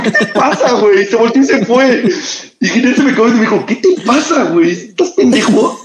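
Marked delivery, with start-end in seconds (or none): 0.0-1.1 a lightly voiced girl, offended and sharp. Offended girl snaps back at him. 3.7-5.8 higher, laughing scold from a friend; half-laughing disbelief, then slow on the insult; friend mocking. Friend laughs at him for blowing it, mocking disbelief.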